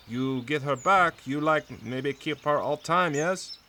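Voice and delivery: lightly voiced servant, pitch lifting to a question; servant's questioning. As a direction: put a probing question as the servant. Servant questions grieving husband.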